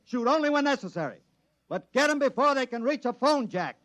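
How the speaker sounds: firm voice of a chief rallying his men; commanding address. Acted. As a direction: project the briefing to the whole crew. Chief giving orders to assembled men.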